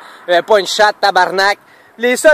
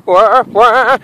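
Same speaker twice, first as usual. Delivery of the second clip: lightly voiced boar grunt; mock the boar with a little grunt; boar imitation. Teasing the boar about its accent, light grunt. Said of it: "ton accent de sanglier".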